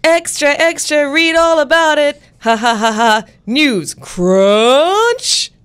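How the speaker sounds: high, loud newsboy jingle shout; rapid old-time reporter. Pretend. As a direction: belt it like an old-time paper boy. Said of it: "please give me a News Crunch jingle".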